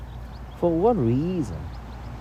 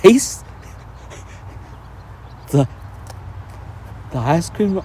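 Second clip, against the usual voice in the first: incredulous echo; 3 semitones higher, 3 dB quieter than usual. Retold or imitated. Mocking Barcelona tourist's claim.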